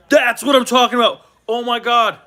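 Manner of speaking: thrilled fan reacting to the Packers' pick; excited cheer. Real, not acted. His team drafts the player.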